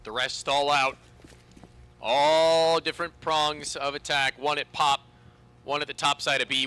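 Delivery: steady play-by-play commentary; esports caster. Real, not acted. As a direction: narrate the round setup calmly. Live play-by-play of round.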